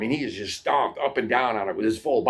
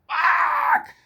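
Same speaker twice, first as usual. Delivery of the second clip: loud high swear at full rage; furious shout; 6 dB louder than usual. Retold or imitated. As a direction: spit it out in pure fury. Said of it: "He's just like".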